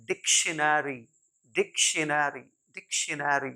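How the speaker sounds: डिक्शनरी said "DIK-shuh-na-ree"; every syllable of डिक्शनरी sounded separately; correct pronunciation. Shown as a demonstration. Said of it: "गलत pronounce करते आ रहे हैं". (डिक्शनरी का हर अक्षर साफ़, "डिक्शेनरी")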